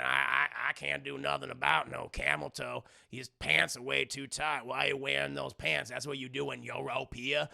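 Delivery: lightly voiced grumbling old uncle; gruff old man. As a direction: shrug it off gruffly. Joe defending his rudeness.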